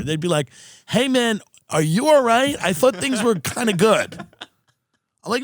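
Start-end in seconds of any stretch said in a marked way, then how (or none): 0.9-4.2 concerned friend. Retold or imitated. Worried friends voiced in a story.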